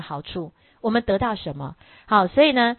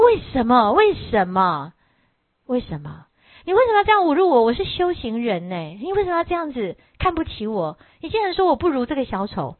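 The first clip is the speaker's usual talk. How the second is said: insulted outburst. Acted. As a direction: protest the insult with rising anger. Insulted disciple protests to master.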